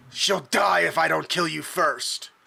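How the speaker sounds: large mechanical robotic voice, creaky. Narrator voicing an attacking character's threat, in a big mechanical voice. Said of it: "in a big mechanical voice".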